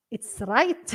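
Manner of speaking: "right" with a tentative Scottish R; attempted Scottish R. Shown as a demonstration. Teacher tries Scottish R for learners, "right" with attempted R. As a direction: have a failed go at a Scottish R in "right". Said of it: "I can't say it".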